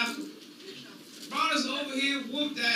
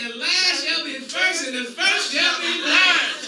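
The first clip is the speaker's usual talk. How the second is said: preaching scripture; 2 semitones higher than usual. Acted.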